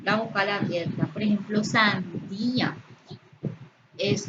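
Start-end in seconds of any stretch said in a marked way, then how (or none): 1.6-2.7 sandía drawn out, stressed on the í; sandía with í and a in separate syllables. Shown as a demonstration. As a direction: lean slowly on the í of sandía. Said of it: "la vocal cerrada acentuada".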